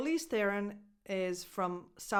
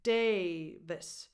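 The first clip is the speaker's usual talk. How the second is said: "Davis" with stress on DAY; DAY-vis, second syllable unstressed; first-syllable stress; 2 semitones lower than usual. Shown as a demonstration. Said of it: "the stress goes on the first syllable".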